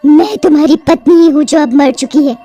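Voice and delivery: eerie, threatening witch voice; dead wife swearing revenge on husband; vengeful witch. Acted. (बदला लेती चुड़ैल की आवाज़)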